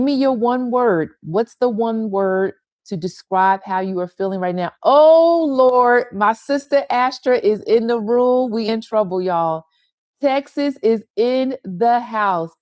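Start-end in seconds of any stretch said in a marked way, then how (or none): 4.8-8.5 loud, high burst of delight; excited exclamation. Real, not acted. Host spotting her sister in the room, thrilled shout. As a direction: cry out in happy surprise.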